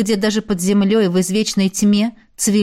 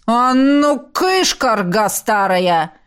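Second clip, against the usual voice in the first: gruff shooing; much slower than usual. Acted. Spirit shoos away the head.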